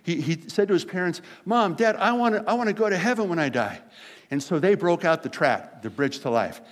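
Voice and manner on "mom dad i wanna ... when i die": lightly voiced little boy, a bit higher; hint of an eager small kid, quick at the end; seven-year-old boy. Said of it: "this is a little seven-year-old boy".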